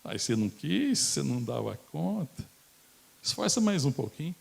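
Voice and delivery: high, teasing scold; mock-condescending Jesus; mocking reply. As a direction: tease a sinking man, snidely. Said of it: "de forma maldosa".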